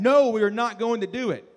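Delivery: put-on the boys refusing the king, emphatic; emphatic refusal. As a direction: plant your feet and say no. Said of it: "their tone might be a little more strong".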